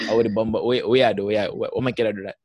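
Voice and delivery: exasperated burst of Jamaican patois. Acted. Mad at someone doing something stupid, slipping into Jamaican patois. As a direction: slip into quick, irritated Jamaican patois. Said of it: "that's when I'll speak, like, patois".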